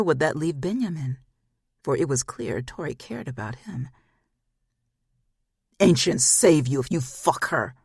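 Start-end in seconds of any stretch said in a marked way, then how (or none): 5.8-7.7 calling across the yard, raised voice; a called threat across the yard. Acted. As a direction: warn him from a distance. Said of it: "Stefan called from the edge".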